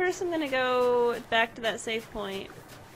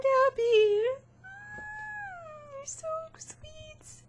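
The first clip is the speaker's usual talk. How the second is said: tearful tenderness; much slower than usual. Real, not acted. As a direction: melt into grateful tears.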